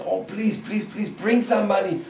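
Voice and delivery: high, loud, whining plea; begging guardian aunts. Acted. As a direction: wail about the money in a high voice. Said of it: "And Jatila Kutila says".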